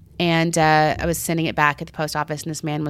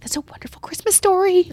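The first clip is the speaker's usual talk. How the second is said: charmed stranger; 11 semitones higher than usual. Retold or imitated. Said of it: "He's like".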